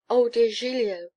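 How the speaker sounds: high, loud, delighted exclamation; high-pitched fond cry; cried out. A narrator's reading. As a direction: gush with sudden joy. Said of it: "cries Gruffanuff".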